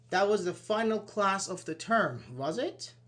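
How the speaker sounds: "was it?" said as a checking question; guessing tone on "That was the final class of the term, was it?". Shown as a demonstration. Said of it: "with a guessing or questioning tone".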